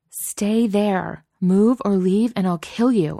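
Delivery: loud, emphatic command; bossy. Acted. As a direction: order her to stay put. Bossy text read.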